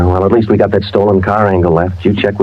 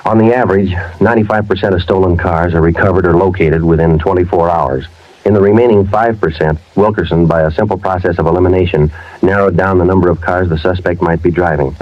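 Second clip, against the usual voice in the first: even, measured voiceover narration; deadpan police narrator. A narrator's reading. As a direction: tell the case like a detective's log.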